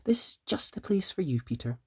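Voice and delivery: hushed, motherly whisper; soft mother rabbit. Acted. Missus Rabbit showing Peter his new room, hushed. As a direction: whisper it like a caring mother bunny. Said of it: "she said".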